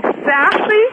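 "Sassy" echoed as a puzzled question; mimicked mispronunciation. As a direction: query the odd word "Sassy" as he says it. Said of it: "What do you keep saying?".

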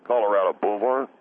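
"Boulevard" squashed into "boo-vard"; slurred boulevard. Acted. Caller insisting on the street name to the host, "Boulevard" as "boo-vard". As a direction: drop the middle syllable of "Boulevard", "boo-vard". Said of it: "What is a boulevard?".

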